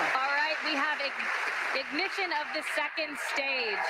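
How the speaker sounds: thrilled announcer calling the ignition; excited. Real, not acted. Cheering second stage ignition on launch.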